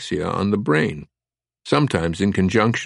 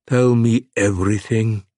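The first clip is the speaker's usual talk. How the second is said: demanding; 3 semitones higher than usual. Acted. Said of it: "he demanded".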